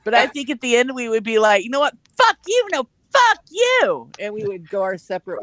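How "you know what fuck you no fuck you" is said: high yelled fuck you back and forth; mock shouting match. Yelling at each other on parting ways, mock shouting. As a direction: hurl it back at her, pitched way up.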